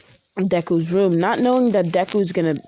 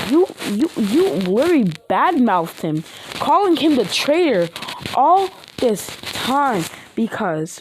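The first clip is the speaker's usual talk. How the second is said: angry scolding; 4 semitones higher than usual. Acted. Momo scolding Uraraka for calling him traitor, heated. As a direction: tear into her for badmouthing him.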